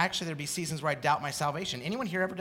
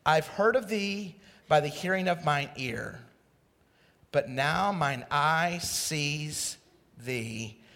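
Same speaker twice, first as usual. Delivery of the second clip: put-on slow, reverent reading of the old King James words; solemn scripture reading; slower than usual. Shown as a demonstration. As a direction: read it slowly like holy scripture. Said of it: "You know what he just said?".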